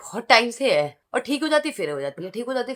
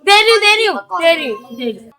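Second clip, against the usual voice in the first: loud high placating cry, fading to usual; hurried giving in; 5 semitones higher, 7 dB louder than usual. Real, not acted. Giving in to a demanding child, loud then settling.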